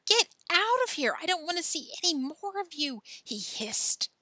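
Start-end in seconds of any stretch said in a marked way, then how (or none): 0.0-3.0 high-pitched furious outburst; wild anger. A narrator's reading. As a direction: order her out, starting loud and high. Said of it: "absolutely wild when he saw her".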